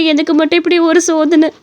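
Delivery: acted lament ending in sobs; crying. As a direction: break into crying at your fate. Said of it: "எதுக்கு இப்படி உட்காந்து அழுதுகிட்டு இருக்கிற?". (அழுதபடி புலம்பல்)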